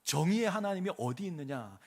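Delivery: mild whining protest to God; grumbling complaint. Retold or imitated. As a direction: voice the people's bitter grievance. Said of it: "이렇게 불평하는 겁니다".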